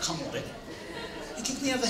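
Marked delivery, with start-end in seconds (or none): 0.0-0.4 softer, lower offhand "come on"; mild soft plea. Retold or imitated. Son talking back to his dad, soft casual plea. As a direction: say it low and casually. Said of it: "like that".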